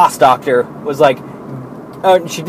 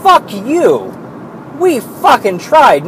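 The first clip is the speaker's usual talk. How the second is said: mock angry retort; 8 semitones higher, slower than usual. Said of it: "It's like".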